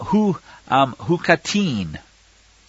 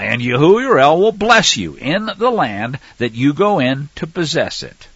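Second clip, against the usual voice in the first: raised, emphatic reading voice; scripture reading; 3 dB louder than usual. Acted. Preacher reading Deuteronomy aloud, emphatic. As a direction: proclaim the verse to the flock.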